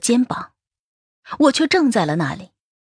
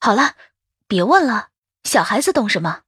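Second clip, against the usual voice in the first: understated motherly rebuke; mild scolding. Acted. Mother cutting off her child's questions, mildly scolding. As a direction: hush a child with a touch of reproof. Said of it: "我呵斥道".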